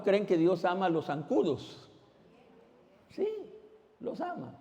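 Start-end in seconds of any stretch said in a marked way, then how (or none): 3.1-4.5 lifted up high and light; "los ama" sung out high and soft; high bright answer. Shown as a demonstration. Repeats the answer, rising.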